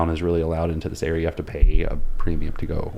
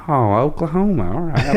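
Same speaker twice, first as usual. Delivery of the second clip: higher, badly faked Oklahoma accent; 6 semitones higher than usual. Girl echoing the traveler's home state, mock Oklahoma accent. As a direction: imitate an Oklahoma accent, not very well. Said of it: "like, a bad Oklahoma accent".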